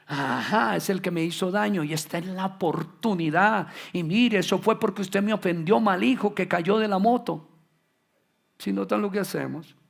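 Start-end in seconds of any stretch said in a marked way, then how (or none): 0.1-7.5 louder, higher gloating scold; vengeful scolding. Retold or imitated. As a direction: rub it in like a vindictive parent. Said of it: "usted diga". (regaño vengativo, más alto y fuerte)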